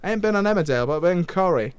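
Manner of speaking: host playing a cheeky northern English voice actor; lightly put-on northern English accent, chatty and blunt; hammy northern English character. Host plays Nolan from North.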